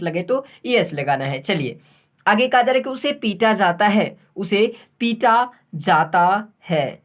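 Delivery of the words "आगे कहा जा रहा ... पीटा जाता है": slow dictation. Shown as a demonstration. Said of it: "dictating sentence".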